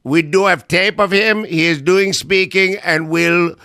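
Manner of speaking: lightly voiced official in broken stiff English. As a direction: play a bumbling official briefing the press. Kash Patel role, broken English.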